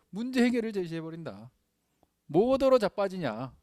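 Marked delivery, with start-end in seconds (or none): 2.3-3.5 slow, drawn-out Jeolla dialect retort. Acted. Blunt comeback to the wire-crossing demand, Jeolla dialect. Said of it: "이 전라도 사투리죠".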